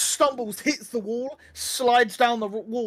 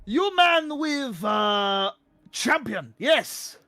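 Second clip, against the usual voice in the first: jovial minotaur; 2 semitones higher, slower than usual. Acted. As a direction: cheer heartily in broken monster speech. Plays the minotaur.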